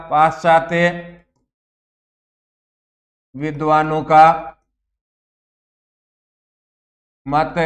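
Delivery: पाश्चात्य, विद्वानों का, मत with long pauses; word by word for notes; slow dictation. Shown as a demonstration. Teacher dictating the heading to the class. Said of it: "teacher dictates heading".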